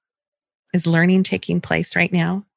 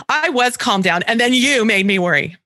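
put-on whiny child; 2 semitones higher than usual. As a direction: drag it out like a sulky kid. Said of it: "one of my favorites".

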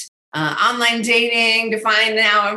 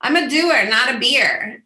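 high, louder cry of frustration; frustrated outburst; 4 semitones higher, 4 dB louder, slower than usual. Retold or imitated. Arguing with her mentors, frustrated outburst. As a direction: push back loudly, exasperated. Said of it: "I'd be like".

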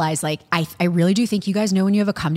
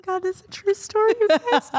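laughing; 13 semitones higher than usual. Real, not acted. Laughing, still in high voice.

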